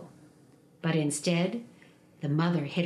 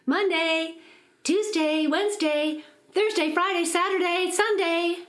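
high calling of names; a mother's high calling voice; 9 semitones higher than usual. Acted. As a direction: call the children across the house. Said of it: "she called".

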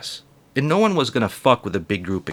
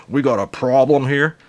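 stern parent voice. Retold or imitated. Voicing confronting parent.

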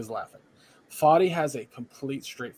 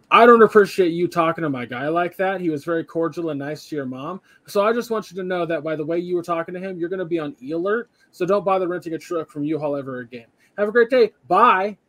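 raised, emphatic scolding down the phone; mock phone telling-off; 3 semitones higher, 5 dB louder than usual. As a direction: tell the customer off, ending on a loud, high sign-off. Acting out Steve's phone telling-off.

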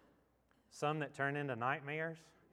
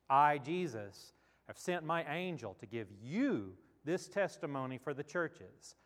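measured reading with long pauses between phrases; Scripture reading; 2 semitones lower than usual. Acted. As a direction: read the verses solemnly, letting each phrase stand. Reads scripture aloud to congregation.

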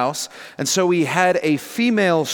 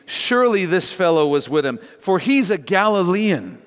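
raised, confident acted accusation; confident assertion; 3 semitones higher than usual. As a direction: affirm it surely, lifting the last phrase. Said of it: "another confidently affirmed".

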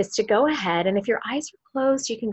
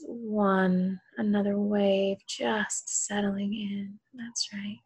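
sultry narrator; slower than usual. Acted. Hypnotist counting down induction.

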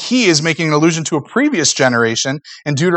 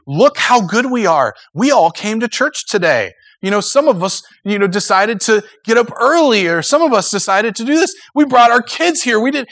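mock boasting; 6 semitones higher than usual. Mocking churchgoers who boast.

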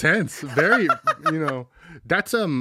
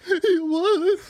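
high laughing admission; 3 dB louder than usual. Acted. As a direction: concede it while cracking up. Janitor conceding through laughter.

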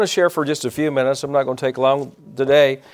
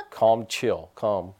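soft, low calming hush; wife soothing her husband, soft and low; 5 semitones lower, 6 dB quieter, much slower than usual. Retold or imitated. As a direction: settle him down gently. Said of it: "She'll go like".

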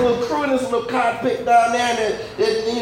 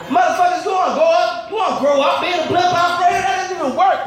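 mock outraged rant; 6 semitones higher than usual. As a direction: rant like you can't believe anyone would want this. Mock-ranting at would-be blimp operators.

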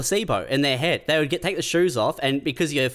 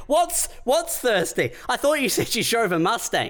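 higher, slowed disbelief at a horse answer; baffled interviewer; 9 semitones higher than usual. Retold or imitated. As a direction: play the bewildered interviewer who can't follow. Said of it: "And they're like".

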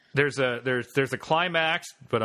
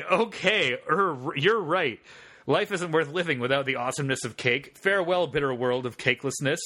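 melodramatic farewell. Acted. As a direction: drag out the tragic goodbye. Melodramatic farewell in script fic.

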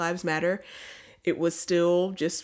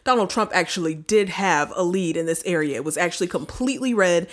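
loud confident TV anchor; news anchor impression; 5 dB louder than usual. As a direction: deliver it like cable news. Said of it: "our impression of all of the news".

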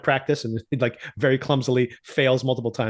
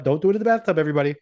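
higher, urgent warning to everybody; raised, pleading caution; mock warning; 4 semitones higher, much faster than usual. Real, not acted. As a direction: call it out like a playful alarm. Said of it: "warning the viewers, raised".

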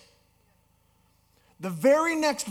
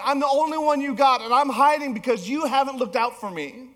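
Elijah's complaint; 4 semitones higher, 5 dB louder than usual. Acted. Elijah pleads, complaining to God.

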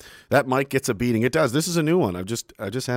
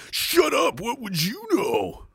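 mocking high voice; 13 semitones higher, slower than usual. Mocking critic retort.

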